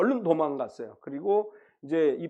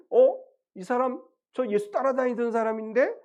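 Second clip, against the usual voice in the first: higher-pitched, puzzled double take; surprised recognition; 7 semitones higher than usual. Retold or imitated. Bystanders spotting Peter by the fire, surprised recognition. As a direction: voice a bystander suddenly recognising someone.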